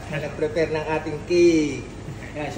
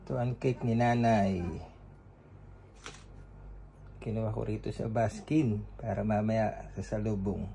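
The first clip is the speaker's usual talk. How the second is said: low, soft voice to camera; hushed vlog narration; 7 semitones lower, 11 dB quieter than usual. Real, not acted. Soft aside to camera about the cake.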